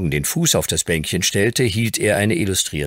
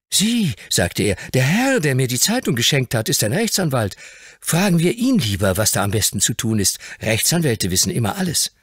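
put-on much higher, amazed boy's voice; stunned boy; 6 semitones higher than usual. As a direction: blurt out the recognition. Dick proposes the lawyer.

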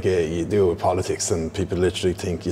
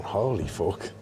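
Jordan Peterson impression; 6 dB quieter, much slower than usual. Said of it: "a Jordan Peterson there".

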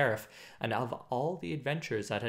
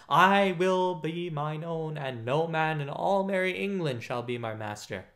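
rough and defiant; 3 semitones higher than usual. Acted. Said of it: "quoth the stranger roughly".

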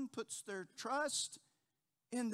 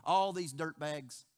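boastful Peter; 4 semitones lower, 4 dB louder, slower than usual. Retold or imitated. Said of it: "he steps up and he says".

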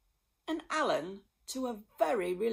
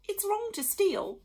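snort; 12 semitones higher, 6 dB louder than usual. A narrator's reading. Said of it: "she snorted".

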